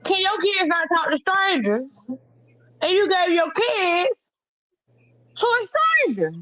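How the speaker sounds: rising disbelief, high; can't believe this; incredulous. Real, not acted. Incredulous challenge.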